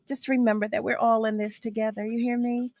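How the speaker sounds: ordinary talk, nothing marked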